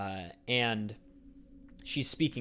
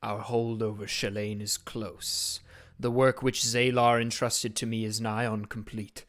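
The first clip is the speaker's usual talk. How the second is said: voice in the flame. Acted. The flame priest questions his servant, cold and distant. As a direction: speak as a far-off master through flames.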